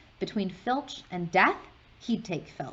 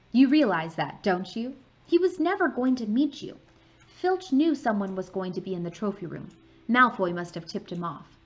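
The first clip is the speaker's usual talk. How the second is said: Hermione; 2 semitones higher, 6 dB louder than usual. Acted. Hermione lecturing.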